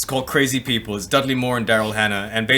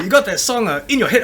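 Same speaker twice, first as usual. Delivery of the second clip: lightly voiced customer, higher pitch; hesitant, higher-pitched retold request; customer asking for a song; 7 semitones higher than usual. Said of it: "this Chinese guy came in".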